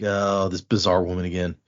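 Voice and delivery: low, mildly annoyed aside; retold annoyance. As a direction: voice someone's weary annoyance, pitched low. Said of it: "he's kind of annoyed".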